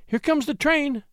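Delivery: high-pitched excited cry. A narrator's reading. Woman calls out as the train arrives, crying out. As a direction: call it out, pitched well up. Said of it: "cried she".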